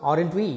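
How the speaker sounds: "aren't we" going up at the end; rising tag. Shown as a demonstration. Teacher asking a real question about meeting, rising tag. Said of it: "Rising intonation".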